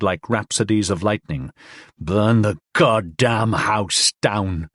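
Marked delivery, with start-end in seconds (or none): 2.0-4.7 slow, dragged-out curse; slow frenzied rage. Acted. Man in a frenzy, slow cursing rage. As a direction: chant it like a madman.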